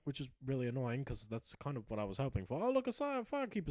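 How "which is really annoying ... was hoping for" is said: muttered aside. Real, not acted.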